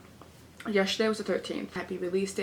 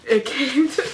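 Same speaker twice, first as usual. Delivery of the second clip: loud, higher, laughing excitement; delighted reveal; 4 semitones higher, 9 dB louder than usual. Real, not acted. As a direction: burst out laughing with the happy news. Delighted reveal that the package came.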